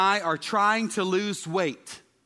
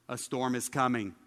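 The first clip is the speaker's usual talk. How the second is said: flat, low, lifeless reading; a boy reading aloud in a monotone; 6 semitones lower, 5 dB quieter than usual. Retold or imitated. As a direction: read it with no interest at all. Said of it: "Monotone voice".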